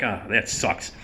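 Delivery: softly dejected, imitated; genuinely bad. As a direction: let it sag quietly, crestfallen. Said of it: "he felt really genuinely bad".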